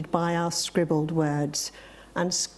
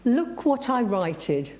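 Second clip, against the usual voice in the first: a hint of a proud little boy, higher and slow; lightly childlike, drawn-out and higher; lightly voiced small child; 4 semitones higher, slower than usual. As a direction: show it off slowly, like a small child. Acting his small son showing off.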